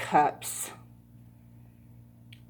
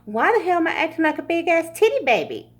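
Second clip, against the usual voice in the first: sulking king voice; 9 semitones higher, much faster than usual. Pretend. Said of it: "'cause he's gotta process".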